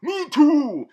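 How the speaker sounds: loud, high burst; emphatic agreement. Acted. Reviewer chiming in on the villain's line, loud and emphatic.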